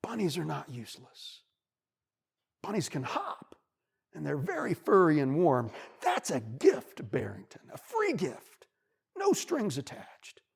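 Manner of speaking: lightly voiced wise wolf; kindly, reassuring lesson; wolf's gentle advice. Wolf comforts the bunny, warm and patient. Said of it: "the wolf looks at him and he says".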